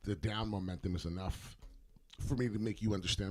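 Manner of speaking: talking through the hiccups; speech broken by hiccups. Real, not acted. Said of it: "I'm getting, like, the hiccups".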